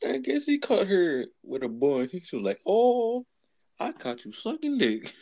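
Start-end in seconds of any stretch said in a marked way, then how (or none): 2.6-5.1 high, drawn-out granddad impression. Imitating the video's granddad catching his granddaughter, accusing. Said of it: "he was playing a granddad".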